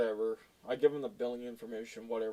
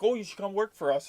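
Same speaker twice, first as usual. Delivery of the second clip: imitating the guy; 7 semitones higher, 5 dB louder than usual. Imitating the guy's offer.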